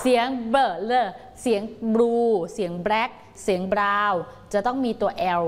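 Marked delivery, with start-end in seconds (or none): 0.0-4.2 slow, careful เบิร์ and เลอ in Blue and Black; clear blends. Shown as a demonstration. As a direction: stretch the blend sounds clearly. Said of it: "สามตัวนี้เน้นเสียงให้ชัด". (เน้นเสียงควบกล้ำให้ชัด ช้าๆ)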